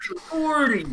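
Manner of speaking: silly clown. Pretend. Joining the goofy voice bit.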